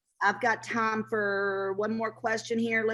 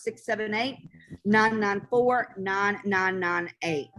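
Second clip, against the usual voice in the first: slow number read; slower than usual. Shown as a demonstration. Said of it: "Again, that number is".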